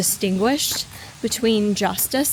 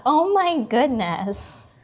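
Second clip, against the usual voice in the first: excited cooing; 3 semitones higher, slower than usual. Real, not acted. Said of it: "my voice gets loud and excited".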